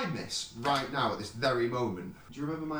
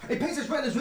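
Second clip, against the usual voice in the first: laughing; 14 semitones higher, 4 dB louder, faster than usual. Acted. Laughing through a rap take.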